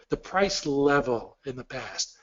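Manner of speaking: "level" given extra weight, phrase slowed; stressing level. Shown as a demonstration. Explaining price history to Peter, emphasizing "level" slowly. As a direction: lean hard on "level" in "the price level". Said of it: "I really want to emphasize the word level here".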